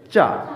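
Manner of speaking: "চা" suelto, acabado en a abierta; "cha" sin r. Shown as a demonstration. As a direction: di "চা" como modelo, sin r final. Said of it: "এইটার উচ্চারণ হবে চা".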